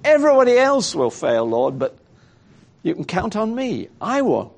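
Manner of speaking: confident, emphatic promise; Peter. Acted. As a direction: boast of your loyalty, starting high and quick. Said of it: "that was what Peter's boast had been".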